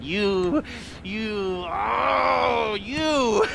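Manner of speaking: high, shouted affection; gushing cry. Acted. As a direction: burst out with fond admiration. Gushing praise at crew.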